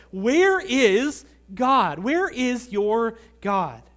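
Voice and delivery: slow, drawn-out mocking challenge; sarcastic sneer. Nations taunting believers about their God, sarcastic sneer. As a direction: stretch each word out as a scornful taunt. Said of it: "almost hear the sneer of sarcasm".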